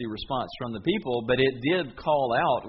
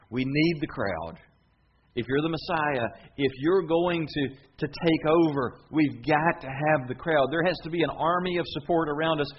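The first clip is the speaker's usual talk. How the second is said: nervous urging; 3 semitones higher, 4 dB louder than usual. Retold or imitated. The twelve plead with Jesus not to lose the crowd. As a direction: urge him anxiously to keep the crowd.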